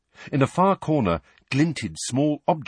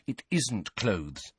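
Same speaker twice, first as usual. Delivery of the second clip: quiet firm denial; 7 dB quieter, much slower than usual. Acted. Hermione denying quietly.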